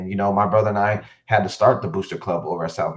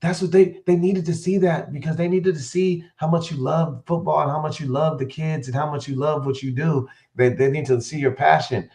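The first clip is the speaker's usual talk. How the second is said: voicing his wife in a much higher pitch; 7 semitones higher than usual. Wife reassuring him on the phone, high imitation. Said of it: "And she was like".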